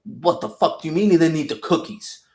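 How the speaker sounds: high, loud, outraged agent voice; mock incredulous rage. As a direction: fume over a wasted plan. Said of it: "that guy's like".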